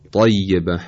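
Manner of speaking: emphatic, dark T in «طیبه»; تلفظ ط با اطباق. Shown as a demonstration. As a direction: start «طیبه» on a heavy velarized ط. («طیبه» با طای پرحجم و مُطبَق)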